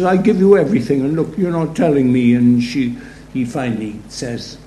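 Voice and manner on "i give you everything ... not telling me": sulky complaint. Retold or imitated. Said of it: "she sulks and cries".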